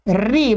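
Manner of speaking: री as r plus long ee; common mispronunciation री. Shown as a demonstration. Teacher quoting a common error, wrong री. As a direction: give री a clear ee vowel. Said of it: "माने ऐसा बोलते हैं री".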